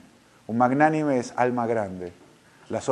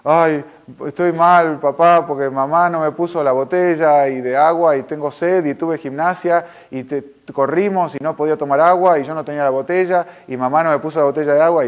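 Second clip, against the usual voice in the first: angry complaining daughter; 3 semitones higher, 6 dB louder than usual. Retold or imitated. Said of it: "estaba enojada y dice".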